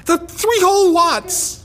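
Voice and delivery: slow, high, mocking; sarcastic. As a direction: sneer at the measly watts. Mocking the watts.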